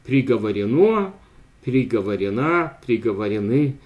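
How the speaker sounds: Приговорено, приговорена, приговорены with stress on the end; end-stressed participles. Shown as a demonstration. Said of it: "the very same end stress".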